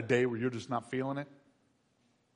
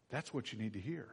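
softer repeat; quiet echo; 8 dB quieter than usual. Shown as a demonstration. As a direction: let it sink in quietly.

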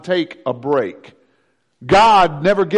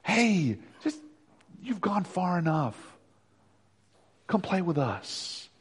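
soft tempting voice; 9 dB quieter, slower than usual. Acted. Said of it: "world call you to say".

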